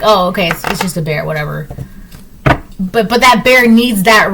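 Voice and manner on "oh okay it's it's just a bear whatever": unbothered shrug. Pretend. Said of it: "you're just like".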